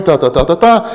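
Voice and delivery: mocking babble. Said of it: "Een gebedje eroverheen".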